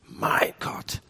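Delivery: breathless whisper of the words; whispered cry. Acted. Preacher voicing Jesus on the cross in a whisper. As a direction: whisper it like a dying plea.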